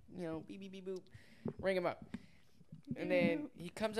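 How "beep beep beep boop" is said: light spoken till beeps; casual mimicked register noises; imitated till beeps. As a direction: beep softly like a cash register.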